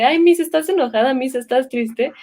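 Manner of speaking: put-on children's questioning. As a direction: lightly mimic a pupil's concerned question. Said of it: "los niños luego, luego te captan la emoción".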